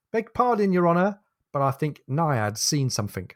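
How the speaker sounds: a light Cockney sailor's voice, starting high; a deckhand reporting to his captain in mild Cockney. Acted. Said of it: "says in a Cockney voice".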